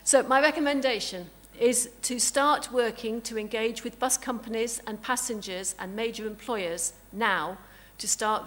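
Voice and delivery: loud, grand stage delivery; theatrical voice. Shown as a demonstration. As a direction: declaim it like a grand Hollywood dame. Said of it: "your theatrical voice".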